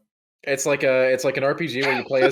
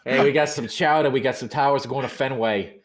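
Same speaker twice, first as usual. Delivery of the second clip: put-on Boston accent. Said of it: "the Boston accent".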